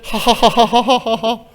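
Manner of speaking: high, drawn-out "hahaha"; put-on string of ha-ha laughs; imitated laughter. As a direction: act out a face full of laughter. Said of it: "기본 디폴트 값이 웃음이다".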